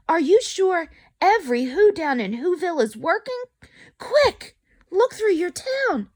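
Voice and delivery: a hint of a worried Horton; calling back. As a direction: press the mayor anxiously. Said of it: "Horton called back".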